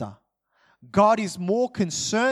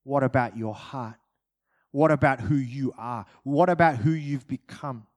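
God's voice; 5 semitones lower than usual. Retold or imitated. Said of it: "And God would say".

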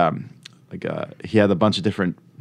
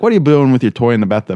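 mock scolding dad; 4 semitones higher, 4 dB louder, faster than usual. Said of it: "not yell, but be like".

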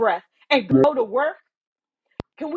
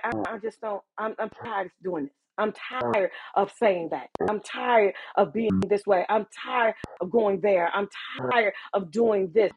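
whiny tired complainer; 4 semitones lower than usual. Retold or imitated. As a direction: mimic a worn-out whiner.

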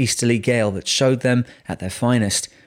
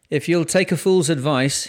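higher, sudden piece of advice; 6 semitones higher than usual. A narrator's reading. Old captain advising a young officer to leave the sea, sudden. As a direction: come out with it abruptly, pitched up. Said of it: "he said suddenly".

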